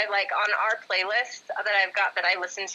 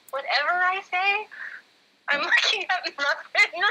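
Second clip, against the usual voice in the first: laughing; 9 semitones higher than usual. Real, not acted. Caught distracted, laughing while answering.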